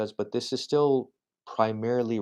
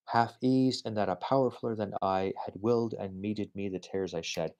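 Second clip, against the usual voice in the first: poem reading. Acted. Reads a poem aloud.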